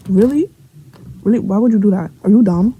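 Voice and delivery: rising, disbelieving questions; incredulous scolding. Retold or imitated. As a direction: re-enact a reaction of sheer disbelief. Incredulous reaction to being exposed.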